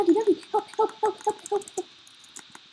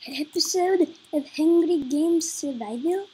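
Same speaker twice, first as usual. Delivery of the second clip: put-on part Russian accent; 6 dB louder than usual. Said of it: "Sorry about the part Russian accent there".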